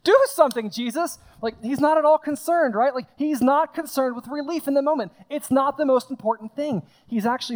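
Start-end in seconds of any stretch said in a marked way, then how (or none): 0.0-1.2 desperate plea. Retold or imitated. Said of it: "Which is just like".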